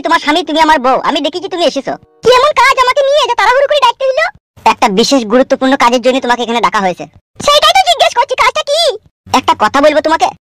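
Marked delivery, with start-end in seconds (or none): 2.2-4.3 higher-pitched wife, annoyed; grumbling wife. Acted. Wife questioning husband. 7.5-8.8 higher-pitched wife, annoyed; grumbling wife. Acted. Wife questioning husband.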